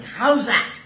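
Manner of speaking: loud, high cricket appeal shout; yelling. A narrator's reading. Boy at cricket yelling an appeal after hitting the ball: loud shout.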